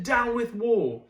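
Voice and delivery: slow, lightly hooted little dinosaur line; gentle hoot. Acted. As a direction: coo it out gently and slowly. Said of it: "and he hooted".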